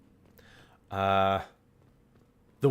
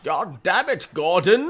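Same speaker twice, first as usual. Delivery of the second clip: shouting; 8 semitones higher, 7 dB louder than usual. Real, not acted. Yelling at teammate in fight.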